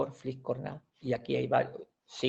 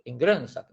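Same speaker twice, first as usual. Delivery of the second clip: GRÖNsak, first syllable punched and the end dropped; stress on first syllable. Shown as a demonstration. Teacher showing how not to say it, stress on the Grön of Grönsak. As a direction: hit "Grön" in Grönsak, let "sak" fall. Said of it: "no decimos en Grönsak".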